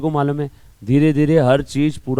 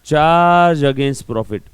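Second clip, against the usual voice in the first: slow dictation; 3 dB louder, much slower than usual. Shown as a demonstration. Teacher repeating the key phrase for notes, slow and firm. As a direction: spell it out slowly and firmly.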